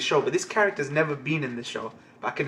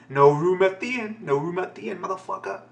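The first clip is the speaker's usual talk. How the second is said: a touch of playful outrage, pitched up; mock-indignant refusal, higher than usual; mock angry; 5 semitones higher, 4 dB louder than usual. Joking about the inn turning Jesus away, mock angry. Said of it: "Jesus is angry".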